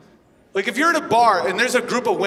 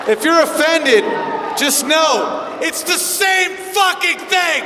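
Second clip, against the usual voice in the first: higher and louder, slow hammered punchline; comic shout; 7 semitones higher, 3 dB louder, slower than usual. Real, not acted. Comic yelling at offended audience, loud and slow. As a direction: yell it at the offended crowd.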